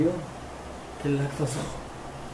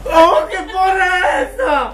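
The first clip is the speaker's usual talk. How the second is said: shocked shout; 10 semitones higher, slower than usual. Real, not acted. Shocked at makeup in photo.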